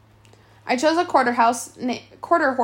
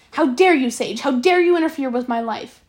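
hissed anger; 3 dB louder than usual. Acted. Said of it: "then hissed".

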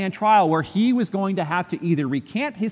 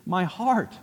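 hurt rebuke; 3 semitones higher, slower than usual. Retold or imitated. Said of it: "Paul is saying".

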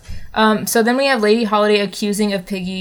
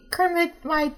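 much higher, sugary put-on voice; coy diva voice; 8 semitones higher than usual. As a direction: act coy and possessive. Imitating Piggy clinging to Kermit.

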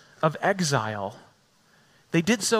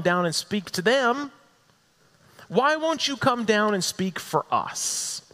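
a touch of raised, frustrated pleading at God; pleading anger; 3 semitones higher than usual. Acted. Desperate people praying to an absent God, mildly angry plea. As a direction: demand why God won't come, half-heated. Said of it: "Can you hear the anger in their voice?".

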